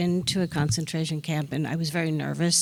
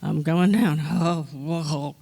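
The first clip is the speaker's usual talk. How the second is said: about to faint. Retold or imitated. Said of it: "all of a sudden I was like".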